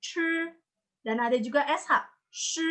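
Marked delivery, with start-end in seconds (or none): 0.0-0.1 C as "ch" with a puff of air; aspirated retroflex C. Shown as a demonstration. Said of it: "itu ada aspirasi". 2.3-2.6 Sh soft, with the tongue curled up. Shown as a demonstration. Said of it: "Ini tidak perlu aspirasi".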